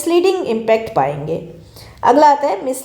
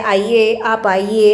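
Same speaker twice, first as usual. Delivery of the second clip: sweet Lucknow Hindi; 3 semitones lower, much slower than usual. Shown as a demonstration. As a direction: invite them in gently, Lucknow style. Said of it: "Hindi में बड़े प्यार से बोला जाता है".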